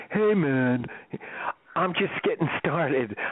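laid-back hippie voice; slow, easygoing hippie drawl. Retold or imitated. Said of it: "in a real hippie voice".

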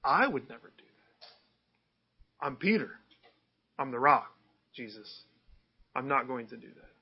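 lightly voiced self-assured Peter, slow at first; a hint of proud Peter vowing loyalty; preacher imitating Peter's confident boast; boastful Peter. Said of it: "Peter's saying".

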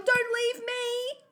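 high, loud, drawn-out wail; desperate yell. A narrator's reading. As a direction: stretch out the pleading cry. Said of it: "I yell".

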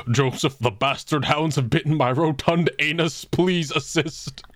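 lightly voiced pompous little dragon; a hint of a posh baby dragon, slowed at the end. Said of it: "in the Baby Dragon voice".

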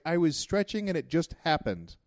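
high-pitched, pleading self-defense; defensive excuse. Retold or imitated. Boyfriend explaining a fart to his girlfriend, defensive.

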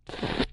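soft breathy tipsy pfft; a quiet drunk puff of air; robot's drunken pfft. Acted. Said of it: "went on rather thickly".

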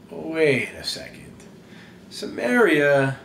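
slow, drawn-out disbelief; taken aback. Acted. Followers told to go to Samaria, balking. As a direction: stop short and question it slowly.

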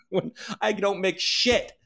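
slow, laughing complaint; laughing through it. Real, not acted. Venting to viewers about critics, laughing. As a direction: laugh while grumbling.

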